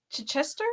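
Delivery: Chichester with a short soft "chih" first and stress on CHES; asked-for pronunciation. Shown as a demonstration. Co-host asking how Chichester is said, questioning pronunciation. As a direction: tentatively offer Chichester as "chih-CHES-ter". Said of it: "asking if you can pronounce".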